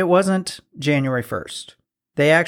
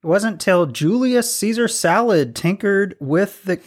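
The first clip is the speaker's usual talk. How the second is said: normal talking voice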